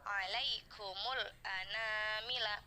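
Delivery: slow, drawn-out tajwid recitation; Quran recitation. Shown as a demonstration. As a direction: chant the verse slowly, every vowel stretched. Recites the verse for students. (bacaan tartil yang pelan)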